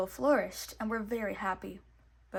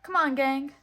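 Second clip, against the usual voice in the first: rallying; 4 semitones higher, 8 dB louder than usual. A narrator's reading. Mickey rallying his friends.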